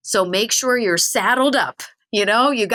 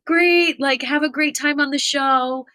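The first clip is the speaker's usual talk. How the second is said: eager fan; 6 semitones higher than usual. Retold or imitated. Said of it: "I'm like".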